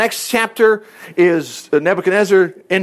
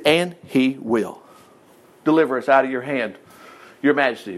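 And he will said slowly, each word weighed; slow emphatic promise; 6 semitones lower, 3 dB quieter than usual. Shown as a demonstration. Preacher quoting the three men's confident answer, slow and emphatic. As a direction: spell out And he will, slow and certain. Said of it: "Notice they didn't say".

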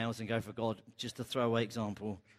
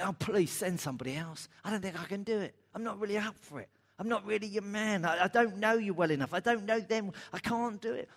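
whiny excuses; 6 semitones higher than usual. Acted. Listener voiced making excuses to God.

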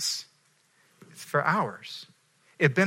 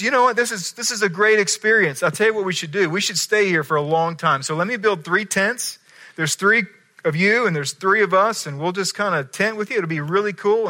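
eager Peter; 4 semitones higher than usual. Acted. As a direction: gush it out like an overexcited friend. Peter blurts out at transfiguration.

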